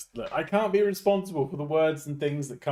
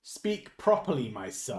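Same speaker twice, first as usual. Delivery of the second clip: slow mock-grand reprimand, dropping low at the end; mock stern correction; 3 semitones lower, 5 dB quieter than usual. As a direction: play a grand parent correcting speech. Mock posh correction of pronunciation.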